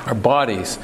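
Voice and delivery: bodies set apart and leaned on, falling at the end; stress on bodies. Shown as a demonstration. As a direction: hold up the word bodies on its own. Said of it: "let me emphasize that word".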